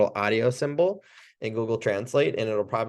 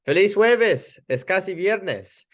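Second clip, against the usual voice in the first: much higher, upbeat Feliz jueves; cheerful greeting; 9 semitones higher, 4 dB louder, slower than usual. Shown as a demonstration. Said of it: "I might say".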